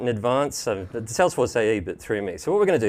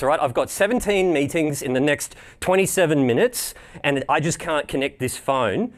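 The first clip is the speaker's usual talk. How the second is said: a mildly irate Aussie customer, pushy and fed up; upset telco customer; 2 semitones higher than usual. Pretend. Caller to service agent Cody, lightly acted irate complaint. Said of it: "I'm going to be an upset telco customer".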